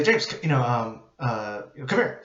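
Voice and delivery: firm, no-nonsense command; blunt and direct. Shown as a demonstration. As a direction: call the patient over bluntly. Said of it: "you have to be that blunt and direct".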